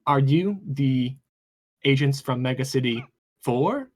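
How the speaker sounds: even, mechanical robot voice; robotic voice. Acted. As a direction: speak like a boxed robot speaker. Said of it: "respond in a somewhat robotic voice".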